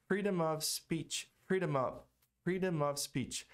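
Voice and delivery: freedom of speech lento, M colado no "of"; palavras ligadas. Shown as a demonstration. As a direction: emende freedom of como "freedomof". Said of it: "linkando, ligando as, as palavras". (freedom of speech com as palavras ligadas)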